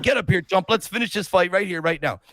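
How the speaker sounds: lightly acted boxer's challenge; Apollo Creed. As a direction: goad a rival into the ring, imitating the champ. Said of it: "he turns into Apollo Creed".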